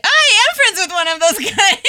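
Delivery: laughs halfway through; laughing. Retold or imitated. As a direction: breaks into a laugh mid-line. Retold thought breaking into laughter.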